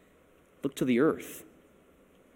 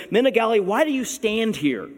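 high-pitched mock questioning, slowing down; sarcastic angels; 6 semitones higher than usual. Angels chiding men staring at the sky, sarcastic. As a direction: needle them with a pointed, raised question. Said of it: "do you see the sarcasm in it?".

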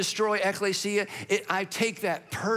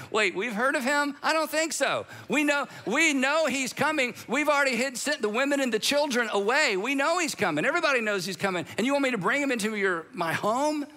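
higher, incredulous protest; a hammed-up frightened refusal; alarmed disciple; 6 semitones higher than usual. A disciple balks at hosting Saul, mock panicked. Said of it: "And the guy's like".

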